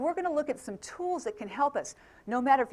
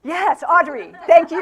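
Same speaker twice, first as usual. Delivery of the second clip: loud, higher-pitched delighted laugh; laughing thanks; 5 semitones higher, 15 dB louder than usual. Real, not acted. Speaker to audience member who said go out and drink, laughing. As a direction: burst into laughter while thanking them.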